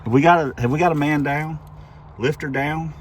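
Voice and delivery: loud mock emergency call; man down shout. Real, not acted. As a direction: call it out like a medic. Mock alarm call over engine.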